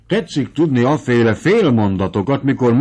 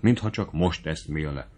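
ordinary delivery

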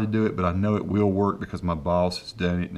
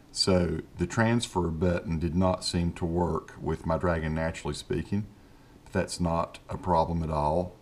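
dictation to software; 3 dB quieter than usual. Shown as a demonstration. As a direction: dictate each word deliberately for the software.

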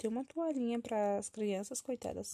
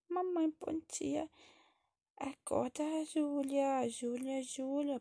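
put-on higher child's voice calling a sister awake; lightly voiced little child; 5 semitones higher, much slower than usual. Child wakes sister Júlia and greets mother, lightly childlike. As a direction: play a small child saying good morning.

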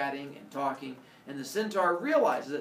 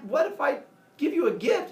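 wheedling centaur; 11 semitones higher, 7 dB louder than usual. Acted. Centaur voiced bargaining.

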